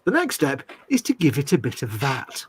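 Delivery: lightly put-on posh English. Shown as a demonstration. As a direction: present it in a mock posh accent. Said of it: "I say in a posh voice".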